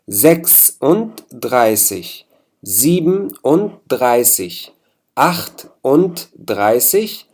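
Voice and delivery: slow, each part of the number said apart; teacher breaking fünfunddreißig into pieces, slowly; split into syllables. Shown as a demonstration. Teacher spelling out numbers for students, syllable by syllable. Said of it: "ما بتلفظوها بهالشكل المقطع".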